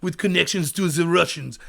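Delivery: low, soft Bond villain with a badly faked French accent; mock French accent, low and hushed. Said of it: "Why am I doing a shitty French accent?".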